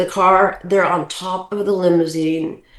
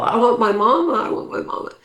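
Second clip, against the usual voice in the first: put-on higher childlike wail, then fading to a breathy whisper; imitating hysterical child; 6 semitones higher than usual. Ten-year-old girl in the crowd begging for mama, mock sob fading to whisper. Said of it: "I'm literally still hysterical".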